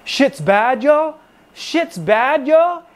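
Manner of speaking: put-on high, rising Cambodian-accented outrage, each yo jumping up; imitating Cambodian accent. Staff sergeant waking him at his bunk, Cambodian-accented angry squeal. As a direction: mimic the sergeant's Cambodian accent, pitch climbing to a yelp. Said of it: "he had a thick accent".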